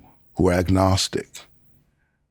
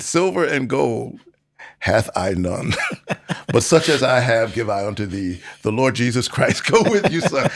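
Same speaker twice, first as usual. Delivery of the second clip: mock biblical prophet. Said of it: "and in King James English".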